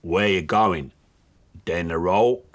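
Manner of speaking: put-on a touch of Scottish accent for a cashew nut with a chip on his shoulder; a mild Scottish accent, gruff and grumbling. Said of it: "He talks a bit like this".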